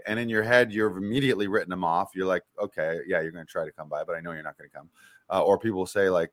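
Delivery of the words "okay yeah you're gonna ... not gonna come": low, quiet disbelieving aside; dry muttered sarcasm; quiet sarcastic. Retold or imitated. Inner reply to the flaky friend.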